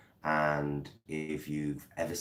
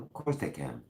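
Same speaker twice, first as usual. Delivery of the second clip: fake American accent. Shown as a demonstration. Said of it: "Can I do a fake American accent?".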